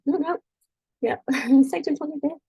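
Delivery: laughing retort. Retold or imitated. Kid retorts, teacher laughing.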